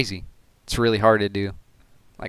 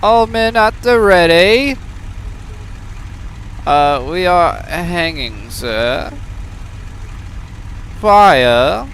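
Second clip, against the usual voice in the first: mock British commander; 5 semitones higher, much slower than usual. Mock British commander ordering his men to fire. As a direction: bark orders like a cartoon British officer.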